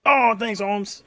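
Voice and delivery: put-on pleased vendor thanking in accent; Hispanic accent. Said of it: "With the accent".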